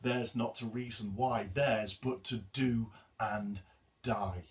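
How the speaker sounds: measured poetry reading; poem recital. Acted. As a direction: recite it with solemn weight. Reads the poem aloud.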